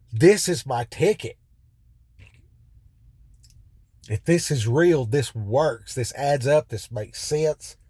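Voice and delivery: a man sure he's found his ticket; excited realization. Retold or imitated. Inmate telling himself he found his answer, excited. Sudden revelation reading scripture.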